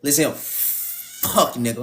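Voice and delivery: slow mock expression. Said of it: "I'ma do some expressions".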